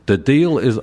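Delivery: a hint of badly faked Scottish; attempted Scottish accent. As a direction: try Scottish and give up. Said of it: "I can't do a Scottish".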